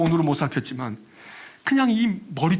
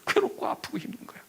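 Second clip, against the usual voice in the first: pained hush; 6 semitones higher, 5 dB quieter than usual. Real, not acted. Jeremiah's pain.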